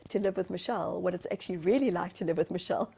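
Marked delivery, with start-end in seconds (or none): none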